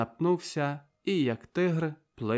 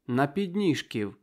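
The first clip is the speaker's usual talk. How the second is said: louder, heated appeal to the crowd; fiery, sharp speech; 4 dB louder than usual. Acted. The prisoner pleads with the crowd for his comrades, fiery and loud. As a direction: rouse them with passionate indignation. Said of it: "запальним, гострим голосом починає".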